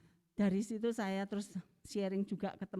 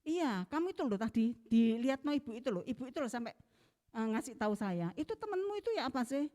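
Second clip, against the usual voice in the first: imitating a lady scolding her; a hint of an annoyed church lady; retold scolding; 3 dB louder than usual. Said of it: "Katanya gitu".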